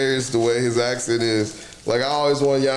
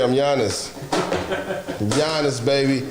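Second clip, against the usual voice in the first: mock Giannis. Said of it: "I'm just playing".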